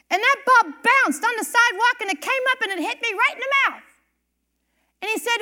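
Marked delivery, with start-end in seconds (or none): 0.1-3.8 put-on excited boy. Child's excited story quoted by mom.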